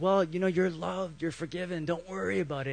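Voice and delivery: acted easygoing comfort; mock gentle reassurance. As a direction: let them off lightly and softly. Acted easy reassurance to Paul.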